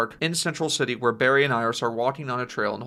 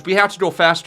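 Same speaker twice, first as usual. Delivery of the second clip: raised voice, higher and louder; urgent call; 5 semitones higher, 7 dB louder than usual. Acted. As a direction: call it out over the rush. Urging partner mid-run at speed.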